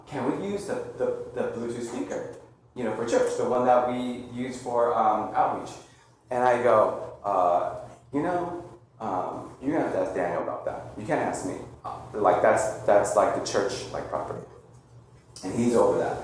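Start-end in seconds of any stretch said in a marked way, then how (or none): 0.1-5.7 daughter's small hesitant request, much softer; timid soft ask. Retold or imitated. Pastor retells his daughter asking him quietly, timid. 7.2-16.2 low mumbled deflection. Retold or imitated. Father brushing off his daughter's request, low and soft.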